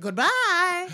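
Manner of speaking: high, loud, hammed-up farewell; mock phone sign-off. Producer ending the casting call, mock shout. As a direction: shout a pretend goodbye down the line.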